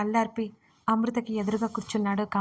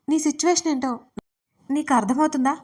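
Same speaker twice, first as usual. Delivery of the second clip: raised, pointed question; direct confronting question; 5 semitones higher, 5 dB louder than usual. A narrator's reading. Gagan confronts the silent patient about her situation, direct and pointed. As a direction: ask it straight out, pitched up. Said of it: "సూటిగా అడిగిన ప్రశ్నకి".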